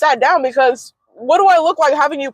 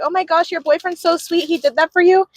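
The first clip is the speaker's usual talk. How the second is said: higher-pitched mock gushing; imitated gushing; 5 semitones higher than usual. Classmates admiring her balloons, imitated gushing. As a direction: imitate admirers cooing over the boyfriend.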